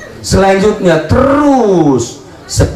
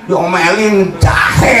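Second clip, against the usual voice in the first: mock sobbing answer; slower than usual. Pak Haji's sobbing answer.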